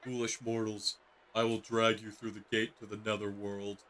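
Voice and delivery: lightly menacing demon lord; a hint of a grand villain threat; booming demon lord. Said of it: "That voice is so fitting for him".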